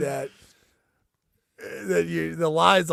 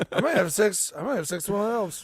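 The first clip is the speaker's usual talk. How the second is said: Missus Claus; 4 semitones higher, faster than usual. Retold or imitated.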